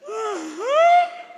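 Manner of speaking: very high, loud mock-whimpered uh-huh; shameless whining child. Cheeky son confirms he got hurt, loud high whine. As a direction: squeal a pitiful yes. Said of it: "aí o cara de pau diz".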